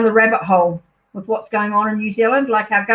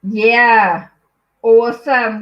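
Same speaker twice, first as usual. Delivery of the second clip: enthusiastic shout; 5 dB louder, much slower than usual. Real, not acted. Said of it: "God, I better not shout".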